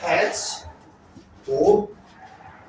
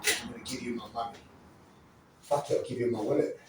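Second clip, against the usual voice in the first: compliant victim; 4 semitones lower, 9 dB quieter, faster than usual. Shown as a demonstration. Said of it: "make a suggestion into the conversation".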